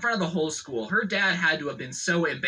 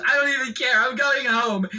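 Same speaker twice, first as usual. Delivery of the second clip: put-on higher, louder whiny teen storming off; hammed-up spoiled teen pout; bratty daughter; 7 semitones higher, 4 dB louder than usual. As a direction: mimic a sulky girl who's been crying. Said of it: "She goes".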